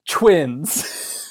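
ordinary talk, nothing marked

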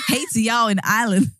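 jokey attempt at an Irish accent; badly faked Irish greeting. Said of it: "supposed to be an Irish accent".

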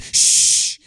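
unvoiced hush; imitated shush. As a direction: shush like someone hiding. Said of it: "You was like".

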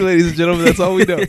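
loud announcer intro. Pretend. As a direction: boom it out like a ring announcer. Mock announcement of the struggle.

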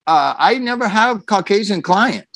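put-on light Korean accent on the quote; broken English, voiced like the therapist; a hint of a Korean-accented therapist; mock Korean accent. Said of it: "He said it literally like that".

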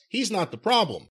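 lightly voiced commentator impression; a hint of Corey's announcer voice; imitating Corey Graves. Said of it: "he talks in a voice like this".

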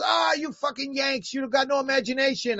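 lightly voiced British artist scoffing at Americans; imitated scornful artist. Artist scolding the editor over the cover, imitated scorn. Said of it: "He goes".

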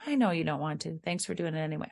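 calm, matter-of-fact parent; unruffled parent. Acted. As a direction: answer the defiance without rising to it. Parent's unruffled reply to refusal.

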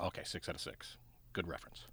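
whispered aside; whispered scoring aside to co-host. Real, not acted. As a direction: breathe it to yourself. Aside scoring under breath.

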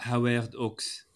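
Howard Hawks with the h dropped, French style; French accent. Pretend. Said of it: "com sotaque francês".

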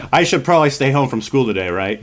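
angling to skip school, half joking; hopeful pleading. Retold or imitated. Boy hinting to mom he should stay home, coaxing.

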